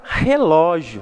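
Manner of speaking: relógio with weight on LÓ; stressed syllable. Shown as a demonstration. Teacher shows the last word, stress on LÓ. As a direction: lean on the LÓ in relógio. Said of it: "pronunciamos com um pouco mais de intensidade".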